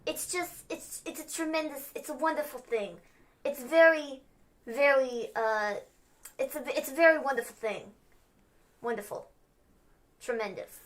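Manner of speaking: mock Trump bragging; a hint of Trump's cadence; Trump impression. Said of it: "Trump-ish sound".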